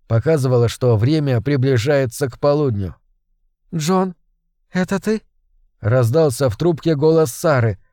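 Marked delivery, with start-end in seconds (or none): 3.7-5.2 Sarah on the phone. Acted. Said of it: "более грудной и хриплый".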